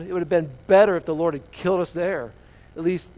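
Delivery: mock whining complaint; whiny voice. Israelites moaning about their journey, whiny. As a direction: moan it out in exaggerated self-pity. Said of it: "I gotta say this whiny voice".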